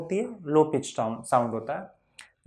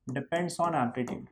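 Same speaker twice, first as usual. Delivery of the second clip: very slow, softer rote recitation; slow drilled answer; 3 semitones lower, 8 dB quieter, much slower than usual. Shown as a demonstration. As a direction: drag each word out for the class. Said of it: "loudness किस पे depend करता है?".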